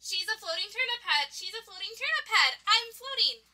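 high-pitched dreamlike wonder; excited exclaiming. Acted. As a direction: chant it with rising excitement. Dream characters exclaim over turnip head.

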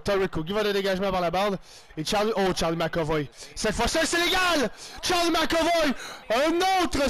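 lively sports-caster call of the action; commentating his own match as it unfolds; play-by-play commentary. Acted. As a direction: call the game like a TV announcer. Play-by-play of own hockey game.

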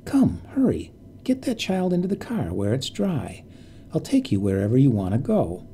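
put-on urgent plea close to an old woman's face. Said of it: "said urgently".

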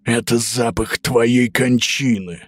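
slow menacing wolf. Acted. Wolf threatens the pig.

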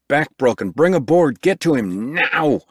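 high, loud urgent orders; shouting for a stretcher; urgent call. A narrator's reading. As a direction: call for help, pressing and loud. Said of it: "Roberts cried".

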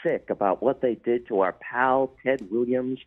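a light, amateur presidential impression; George H W Bush. Former president phones a sportscaster to commiserate, lightly imitated. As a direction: lightly imitate an aggrieved elder statesman on the phone. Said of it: "I wish I could do an impression".

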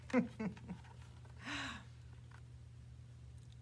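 soft voiceless snorting; pig noise. Pretend. Teacher showing children what the pig says, snorting. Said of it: "And the pig says".

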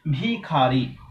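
ভিখারি drawn out syllable by syllable; ভিখারি in slow, separated syllables; careful pronunciation. Shown as a demonstration. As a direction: say ভিখারি slowly, with a full খা in the middle. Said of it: "যখন আমি বলছি".

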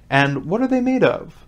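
high-pitched, eager question; very curious. A narrator's reading. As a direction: ask with great curiosity. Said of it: "in a tone of great curiosity".

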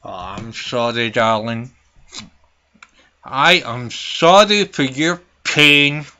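sarcastic sympathy. Acted. Sarcastic fake sympathy to caller.

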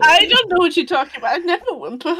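mimicking with a whimper; whimpering copied voice. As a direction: copy the friend, whiny and fast. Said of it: "you never stop moaning and whimpering".

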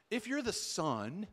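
mildly taunting challenge, slow and drawn out; Satan. Acted. Satan challenging Jesus's identity, mildly taunting. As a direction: needle them slowly, casting doubt. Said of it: "that's how Satan talks to Jesus".

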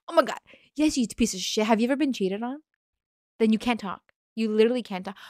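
outraged. Real, not acted. Outraged reaction to poster.

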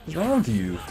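fed-up yell at the game; yelling at enemy. Real, not acted. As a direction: shout it at the boss in disbelief.

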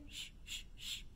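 soft unvoiced shh; shushing. Shown as a demonstration. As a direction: hush it like soothing a baby. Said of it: "shh the babies".

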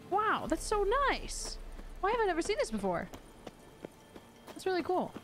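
high, thrilled gamer discovery; excited delight. Real, not acted. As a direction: marvel at a find you never saw. Finds new item in game.

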